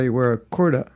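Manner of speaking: kurta in a light mock New Zealand accent, rising; a playful New Zealand twist on kurta; teasing New Zealand accent, barely put on. Shown as a demonstration. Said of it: "If you're from New Zealand".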